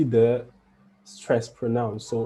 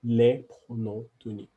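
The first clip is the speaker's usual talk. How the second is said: "Les pronoms toniques" rattled off fast; quick repeat; 2 semitones lower, faster than usual. Shown as a demonstration. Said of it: "we say".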